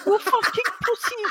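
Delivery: imitating raging coach. Head coach tearing into his players at halftime, furious high-pitched screaming. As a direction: scream abuse at the team like an unhinged manager. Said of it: "And he's going like this".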